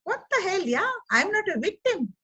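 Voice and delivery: high, defiant snap out of it. Shown as a demonstration. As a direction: shake off the self pity. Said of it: "get out of it and say".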